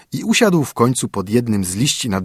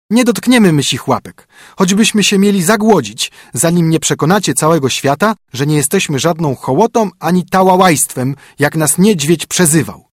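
high, louder stubborn protest; indignant chicks; 6 semitones higher, 4 dB louder than usual. A narrator's reading. Chicks to their parents, indignant and high. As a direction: refuse the food, wounded pride.

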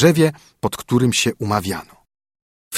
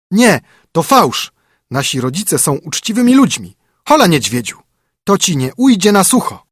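high, louder indignant chicks; outraged cry; 7 semitones higher, 4 dB louder than usual. A narrator's reading. Young wrens cry out at the bear, outraged and loud. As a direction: shriek back at the insult. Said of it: "oburzyło to je okrutnie i krzyknęły".

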